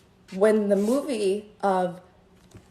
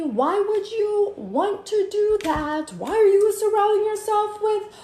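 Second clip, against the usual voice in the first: high sing-song rant; 8 semitones higher than usual. Acted. High rant over the man.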